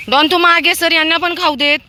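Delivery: high, loud command to the dog; shooing. Real, not acted. Woman ordering the dog Don back at feeding time, loud command. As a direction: shove him back with your voice.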